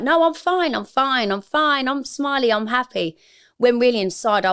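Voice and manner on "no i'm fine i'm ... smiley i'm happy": fake cheerful. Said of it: "I'd always be like".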